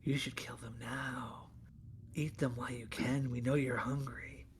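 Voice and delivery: soft eerie unvoiced whisper. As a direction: tempt him quietly like a voice. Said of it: "is saying".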